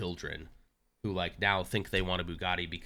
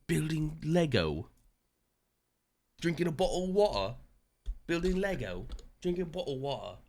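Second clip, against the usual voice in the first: little guy voice; 8 semitones higher than usual. Pretend. Streamer narrating himself in a high silly little guy voice. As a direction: squeak it out like a tiny mocking man. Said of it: "doing the little guy is funnier".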